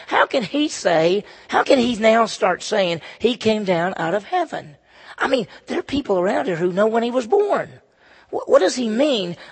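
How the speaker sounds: indignant disbelief; upset, incredulous questioning. Acted. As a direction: demand an explanation as the doubting crowd. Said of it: "They're pretty upset".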